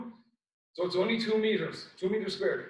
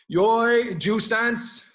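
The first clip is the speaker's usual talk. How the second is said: shouted command; 8 dB louder, much slower than usual. Real, not acted. Sensei calling class commands.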